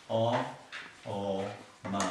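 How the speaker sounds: Om broken into O, O, Ma, each sound apart; syllable by syllable. Shown as a demonstration. Teacher sounding out Om to students, one syllable at a time. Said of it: "It's three syllables".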